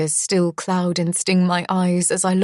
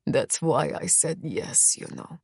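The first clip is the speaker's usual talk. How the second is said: snarl; 2 semitones lower, 7 dB quieter than usual. A narrator's reading. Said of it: "he snarls".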